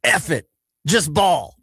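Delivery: mock-careless call to just play; shrugging teammate. Linebacker telling the defense to forget the call, careless. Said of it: "he goes".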